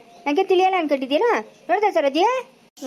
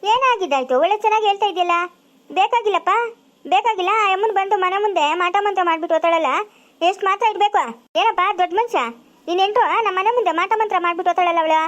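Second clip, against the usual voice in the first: angry rant; 5 semitones higher than usual. Acted. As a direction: tear into the bride's father, outraged. Mother-in-law furious about the daughter-in-law. (ಸಿಟ್ಟಿನಿಂದ ಜೋರಾಗಿ ಬೈಯುವುದು)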